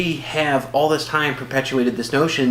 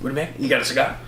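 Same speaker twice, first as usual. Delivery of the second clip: Bernie Mac; faster than usual. Pretend. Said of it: "Your Bernie Mac is horrible".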